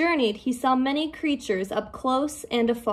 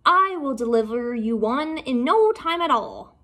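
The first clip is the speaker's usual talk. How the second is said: boastful; 3 semitones higher, 3 dB louder than usual. Acted. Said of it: "boasted the shark".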